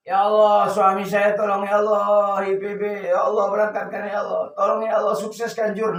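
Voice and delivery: soft, murmured pleading with mock tears; acted tearful prayer. Wife praying for her husband's journey, acted tearful pleading. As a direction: beg quietly as if weeping in prayer.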